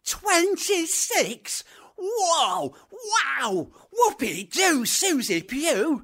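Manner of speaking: slow, high amazed whoop; an alien thrilled by twenty-six miles. Acted. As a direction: cry out in wonder. Alien amazed at race length.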